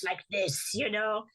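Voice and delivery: lightly imitated old Frenchman's accent; a hint of a French accent; funny French accent. Student imitating the little old clown teacher, French accent. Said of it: "old French man with a funny accent".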